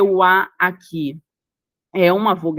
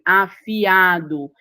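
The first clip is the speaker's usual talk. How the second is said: drawn-out syllables; much slower than usual. Shown as a demonstration. Listing hiatus example words.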